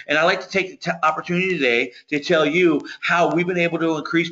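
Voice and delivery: deferential, eager cold-call pitch; subservient sales pitch. Shown as a demonstration. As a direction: sound like an employee asking permission. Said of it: "Because it's a subservient conversation".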